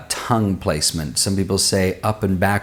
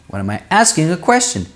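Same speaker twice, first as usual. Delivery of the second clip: much higher, exaggerated question melody; high, sing-song demonstration of asking; tone going up; 7 semitones higher than usual. Shown as a demonstration. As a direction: swing the pitch way up through "asking a question". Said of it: "My tone goes up and down".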